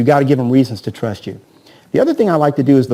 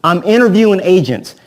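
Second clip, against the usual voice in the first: a light mock seller, a bit higher and louder, falling at the end; seller's line; 4 semitones higher, 4 dB louder than usual. Agent mimics a seller calling to say he's interviewing agents, lightly voiced. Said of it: "he talks like this".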